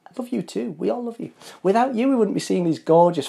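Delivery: whisper-soft thanks to the models; gentle cooing affection; tender thanks. Acted.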